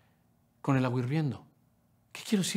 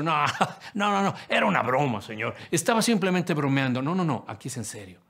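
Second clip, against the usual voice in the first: laughing backpedal; 4 dB louder than usual. Pretend. Preacher jokingly backs out to Jesus.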